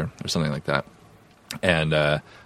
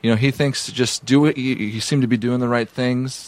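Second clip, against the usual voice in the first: imitating the assistant; 5 semitones higher than usual. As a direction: play the timid assistant relaying the doctor. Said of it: "he's like".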